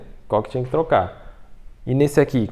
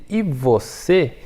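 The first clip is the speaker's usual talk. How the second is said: "e você" slow, syllables set apart; emphatic phrase; 3 semitones higher, much slower than usual. Shown as a demonstration. Teacher singles out a useful phrase, "e você" slow and emphatic. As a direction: stretch out "e você" to highlight it.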